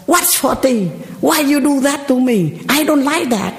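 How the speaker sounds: a hint of a pouty child; sulky kids talking back. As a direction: mimic a bratty kid whining at mom.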